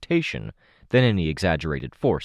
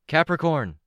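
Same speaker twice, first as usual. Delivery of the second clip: shouted name, much higher; calling out; 11 semitones higher than usual. A narrator's reading. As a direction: call his name across the field. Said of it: "I called out".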